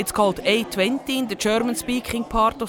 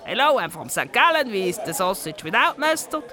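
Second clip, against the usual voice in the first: put-on St. Gallen accent. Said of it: "you can tell where someone comes from just from their accent".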